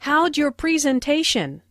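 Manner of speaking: How'd said as howj; How'd your blends to howj-yor; howj contraction. Shown as a demonstration. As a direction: run how did together into howj. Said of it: "contraction for how did sounds like howj".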